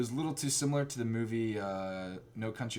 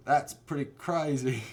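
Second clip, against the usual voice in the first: put-on slow, botched Boston-turned-Australian accent; Boston attempt slipping into Australian; accidental Australian accent; 2 semitones higher, slower than usual. Uncle reacting to the nephew's confession, botched Australian-sounding accent. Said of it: "like I'm Australian".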